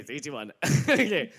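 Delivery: ordinary talk, nothing marked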